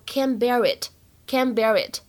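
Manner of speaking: can't bear it with the t of can't dropped and bear linked into it. Shown as a demonstration. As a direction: glide can't bear it together, no t release. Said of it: "完全失去爆破的现象". (失去爆破并连读的can't bear it)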